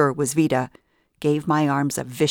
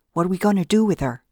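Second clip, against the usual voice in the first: scared; 4 semitones higher, faster than usual. Acted. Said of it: "sounded scared".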